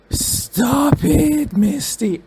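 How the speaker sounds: high, loud, disbelieving cry; loud and high, overcome by what she hears; shocked exclamation. Real, not acted. Shocked reaction to Misty's words.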